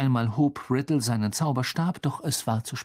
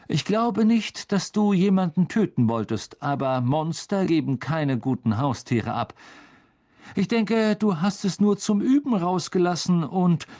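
cold lecturing voice; 5 semitones higher than usual. A narrator's reading. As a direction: talk down to him coldly. Riddle lectures Hagrid.

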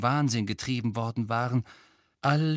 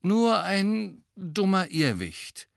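comforting; 7 semitones higher, slower than usual. A narrator's reading. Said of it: "tröstete er sie".

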